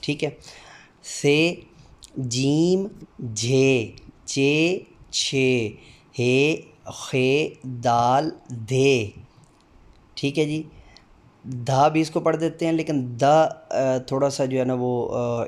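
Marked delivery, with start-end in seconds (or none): 1.0-9.1 each Urdu letter name sounded out slowly and distinctly. Shown as a demonstration. Teacher drilling the Urdu alphabet for demo candidates, slow and distinct. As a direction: recite the alphabet, one clear sound at a time. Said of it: "हर हरफ की आवाज़ अदा करते हुए".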